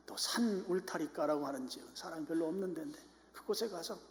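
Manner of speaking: ordinary talk, nothing marked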